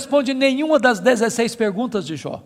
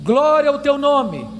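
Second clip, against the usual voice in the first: measured prayer in short phrases with falling ends; solemn closing prayer; 3 semitones lower than usual. Real, not acted. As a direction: pray to God phrase by phrase, reverently.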